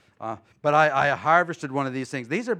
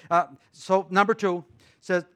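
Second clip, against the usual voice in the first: normal talking voice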